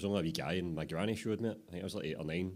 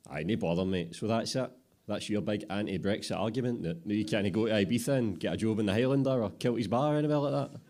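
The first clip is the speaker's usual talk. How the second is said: louder, scornful teasing; mocking apprentice; 4 semitones higher, 5 dB louder than usual. Apprentice mocks his mate's Ibiza argument, loud and scornful. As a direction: take the mick out of his argument.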